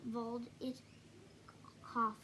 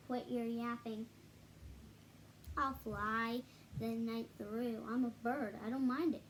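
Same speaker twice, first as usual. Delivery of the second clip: gruff eagle. Acted. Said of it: "called back".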